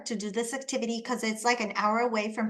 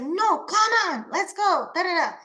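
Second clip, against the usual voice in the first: coaxing mom; 6 semitones higher, 3 dB louder than usual. Retold or imitated. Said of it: "the mom was like".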